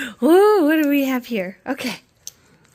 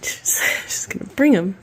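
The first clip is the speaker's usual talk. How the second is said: whisper; 5 semitones lower than usual. Real, not acted. Aside while child plays.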